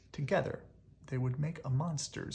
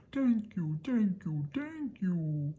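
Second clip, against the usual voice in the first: excited thanks; 6 semitones higher, 5 dB louder, slower than usual. Acted. Monster hugging, repeating thanks.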